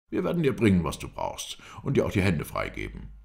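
lightly voiced captor, loud high start; captor's promise. Captor promises prisoner free hands, firm and outspoken. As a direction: announce the concession firmly and aloud. Captor grants writing materials.

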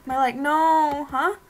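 high, loud terrified screams and cries; panicked screaming. Acted. Friend being dragged off, screaming in panic for help.

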